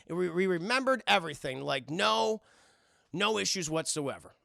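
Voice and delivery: rising, pleased voice; smug family. Retold or imitated. Voicing the smug family on the plane. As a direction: sound overly satisfied.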